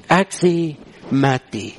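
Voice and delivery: measured scripture quote; unhurried, weighty reading; slow, deliberate. Retold or imitated. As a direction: give the promise slowly, in separate phrases. Announces the verse's second point.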